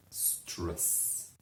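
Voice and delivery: a fading, hushed repeat. Shown as a demonstration. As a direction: let it fade to a breath. Repeated whisper, even softer.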